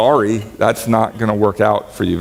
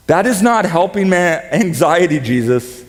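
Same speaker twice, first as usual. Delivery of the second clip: mock complaint; 5 semitones higher than usual.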